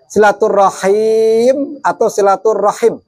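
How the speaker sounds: silaturahim with short ha, then silaturahim with long drawn ha; long vowel contrast. Shown as a demonstration. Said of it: "Haknya dipanjangin atau enggak?".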